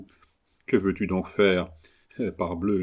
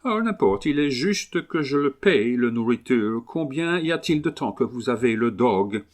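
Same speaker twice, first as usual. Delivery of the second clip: put-on English accent; 2 semitones higher than usual. Englishman haggling over his new dog, English accent. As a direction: play an Englishman's accented French. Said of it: "l'accent anglais".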